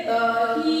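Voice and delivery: दही with the final ee drawn out long; long vowel. Shown as a demonstration. Teacher showing pupils the long ee matra, दही with ee held long. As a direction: stretch the ही in दही. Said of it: "खींच के बोल रहे हैं".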